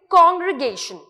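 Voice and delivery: कॉन्ग्रीगेशन as "cong-gri-GAY-shun"; model pronunciation. Shown as a demonstration. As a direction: pronounce कॉन्ग्रीगेशन clearly for learners. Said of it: "कैसे बोलेंगे?". (कॉन्ग्रीगेशन को साफ़ "कॉन्ग्री-गेशन" बोलें)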